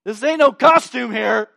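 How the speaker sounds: the offended angel protesting, hammed up. Gabriel scolding Zechariah, mock-indignant and loud. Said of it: "He's like".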